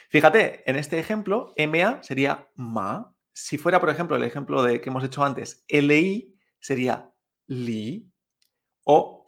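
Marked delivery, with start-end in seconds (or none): 1.6-2.0 "ma" sliding upward; rising second tone. Shown as a demonstration. Teacher giving an example, "ma" in rising tone. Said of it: "siempre es ascendente el sonido". 5.7-6.4 "li" drawn out and rising; rising second tone. Shown as a demonstration. Teacher giving another example, "li" rising slowly. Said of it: "siempre es ascendente el sonido".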